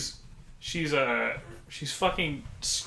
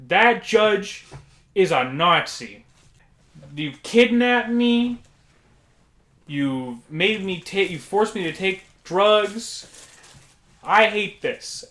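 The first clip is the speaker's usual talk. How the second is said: high, loud, slow ranting patient voice; impression of agitated patient; 6 semitones higher, 5 dB louder, slower than usual. Janitor imitating patient back from court, high, loud rant. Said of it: "I'll do an impression of her voice".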